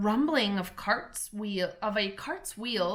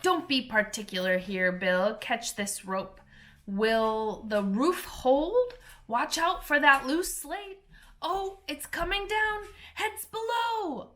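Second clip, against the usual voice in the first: higher, hurried crowd of busy animals; excited animal workers; 5 semitones higher than usual. Acted. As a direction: call out like fussing little creatures. Animals on the roof.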